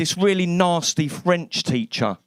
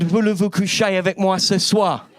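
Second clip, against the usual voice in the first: mock French. Shown as a demonstration. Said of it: "The only French I can say is".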